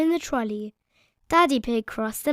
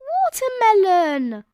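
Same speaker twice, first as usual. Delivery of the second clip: higher, slow, big word; emphasised; 8 semitones higher, 7 dB louder, slower than usual. A narrator's reading. Narrator stressing the big watermelon, slow. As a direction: make it sound huge.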